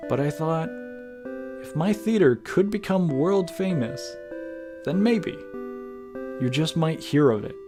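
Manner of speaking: theatrical letter reading with swooping pitch; lilting dramatic letter voice; Tragedy, writing to a love. Acted. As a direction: read it like an actor's heartfelt love letter, with measured pauses. Reads character's letter to beloved.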